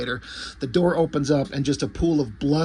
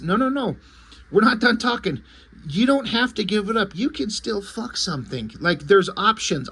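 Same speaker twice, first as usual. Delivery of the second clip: much higher, frantic coaxing; urgent pleading; 6 semitones higher than usual. Retold or imitated. Sonatine begs Jackie not to give up, high frantic plea. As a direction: talk him down in a high panicked rush.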